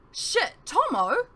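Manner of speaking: high, loud, slow, panicked cry. Acted. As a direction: drag out the name in panic. Mentor shot, panic.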